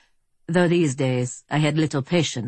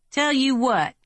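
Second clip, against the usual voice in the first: drawl; 10 semitones higher than usual. A narrator's reading. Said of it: "Earp drawled".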